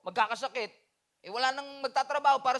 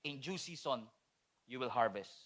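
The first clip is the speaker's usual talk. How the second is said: low, soft verse read; hushed scripture; 9 semitones lower, 11 dB quieter than usual. Shown as a demonstration. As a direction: pastor quietly closing with a Bible promise. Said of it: "Ang sabi nga ng Galatians six".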